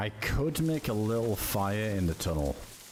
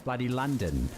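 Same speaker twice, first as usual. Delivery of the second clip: mock London accent; 4 semitones higher than usual. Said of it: "It's trying to be London".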